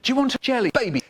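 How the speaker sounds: high mock spooky call. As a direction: coax like a ghost. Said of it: "my spooky voice really hard".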